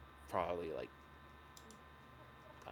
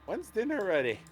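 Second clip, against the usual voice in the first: loud, high call for dinner; 11 semitones higher, 10 dB louder than usual. Pretend. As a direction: shout it through the house. Calling out to the kitchen.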